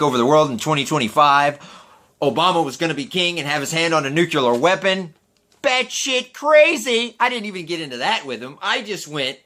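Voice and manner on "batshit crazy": high, drawn-out "Batshit crazy!"; incredulous exclaim. Real, not acted. Host mocking the conspiracy claim, incredulous. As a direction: stretch it out in disbelief.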